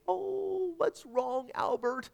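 put-on high, soft coo to a baby; soothing mother. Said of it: "asked soothingly".

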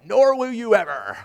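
mock indignant retort. Dad answers remark about his crying, mock indignant. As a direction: declare it with mock defiance.

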